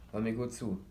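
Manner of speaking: a touch of a stern, serious father; lightly voiced, earnest warning. Father opening a serious talk with his son, earnest. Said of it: "mit einer ernsten Stimme".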